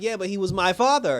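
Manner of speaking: laughing through a retold line; half-laughing, retelling Iris's comeback; laughing retort. Iris's comeback retold while laughing.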